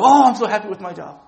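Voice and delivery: mock contentment. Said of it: "do I go".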